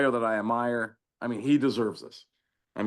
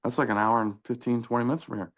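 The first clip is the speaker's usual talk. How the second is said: taken aback. Retold or imitated. Coach hears how far the boy travels, taken aback. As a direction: retell a coach's surprised reaction. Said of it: "he jumped back and said".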